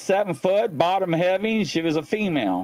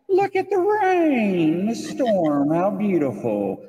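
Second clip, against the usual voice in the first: imitating friend; slower than usual. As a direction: stretch it out dreamily. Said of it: "And she's like".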